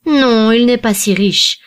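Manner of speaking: charitable. A narrator's reading. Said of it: "intervint charitablement le second jeune homme".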